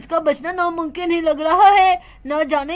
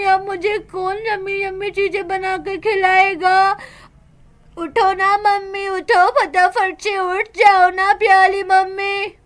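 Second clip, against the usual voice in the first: put-on pleading little girl. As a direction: promise to be good if mummy wakes. Daughter begs dead mother to wake.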